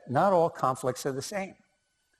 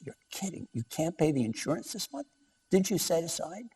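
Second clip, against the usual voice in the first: higher-pitched imitation of an incredulous wife; retold disbelief; 4 semitones higher, 4 dB quieter than usual. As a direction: question him in mock disbelief. Retold wife shocked at unpaid insurance.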